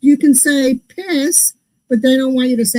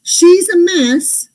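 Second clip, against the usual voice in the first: Southern saying; 5 semitones higher, much slower than usual. Retold or imitated. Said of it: "Southern, they go".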